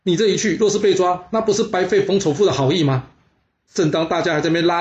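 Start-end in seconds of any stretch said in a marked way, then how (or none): 0.0-3.1 higher, alarmed urgent begging; panicked plea to the king, pitched up; frightened pleading. Acted. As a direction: beg the lord not to go. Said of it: "两个吓得赶紧劝着齐景公说".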